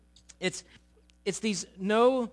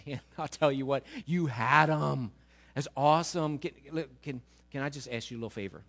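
lightly voiced fawning mom; wheedling mother; 5 semitones lower than usual. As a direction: flatter Jesus before asking a favor. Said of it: "she comes up and says".

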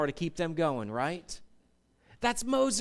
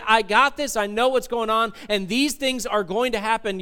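self-assured. Retold or imitated. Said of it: "self-assured and saying".

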